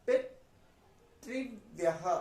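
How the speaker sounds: पितृव्यः spelled out very slowly, री clear, final "ह" echo; very slow model reading. Shown as a demonstration. Teacher drilling पितृव्यः slowly for learners. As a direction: crawl through पितृव्यः one syllable at a time. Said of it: "तो हम इसको क्या बोलेंगे".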